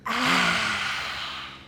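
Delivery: lion's breath. Shown as a demonstration. Teacher's last lion's breath with the class, gentle exhale. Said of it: "In through your nose".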